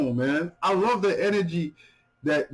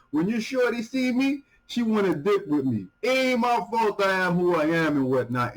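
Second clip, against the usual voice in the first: paraphrasing the rapper; 5 semitones higher than usual. Retold or imitated. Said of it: "So he's saying like this".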